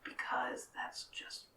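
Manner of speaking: whisper yelling. Acted. Whisper yells.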